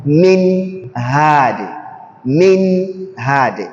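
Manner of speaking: slow "Min hadi" with a clear nun before the h; drawn-out "min hadi", nun never hidden; "min hadi", each sound separate; clear Izhar. Shown as a demonstration. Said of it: "Nun with Sukun".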